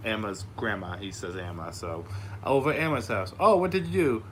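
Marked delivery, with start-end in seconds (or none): 2.5-3.3 put-on toddler voice. Voicing his toddler son. 3.4-4.2 higher, louder cheery parent voice; dad quizzing his toddler about his day, upbeat and high; dad talking to toddler. Retold or imitated.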